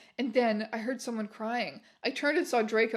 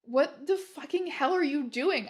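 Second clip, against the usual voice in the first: angry shout; 3 semitones higher than usual. Acted. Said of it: "I shouted angrily".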